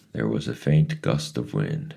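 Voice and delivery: ordinary delivery, nothing marked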